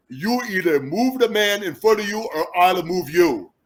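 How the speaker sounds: mock-menacing teammate in his accent; Christian Okoye accent. Running back answering his center in the huddle, accent imitation. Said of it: "I'm gonna do my best Christian Okoye accent".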